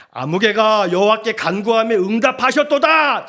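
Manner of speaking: loud, building proclamation; 목청껏. Shown as a demonstration. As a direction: declare it with a full throat, rising to the end. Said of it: "목이 터져나가도록 얘기할 거예요". (목청껏 힘주어 선포)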